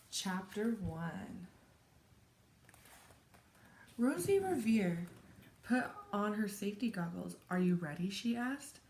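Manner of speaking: lively, expressive picture-book read-aloud; story narration. A narrator's reading. Teacher reads a chapter book to children, animated story narration. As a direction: read it to children with dramatic pauses.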